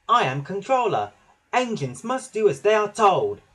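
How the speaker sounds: loud, high, bossy proclamation; booming. A narrator's reading. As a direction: boom it out like the boss. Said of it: "Percy boomed".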